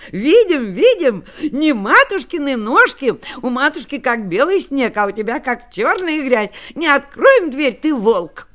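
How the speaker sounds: put-on loud, high, excited kids; excited kids shouting. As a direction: shout back at the wolf.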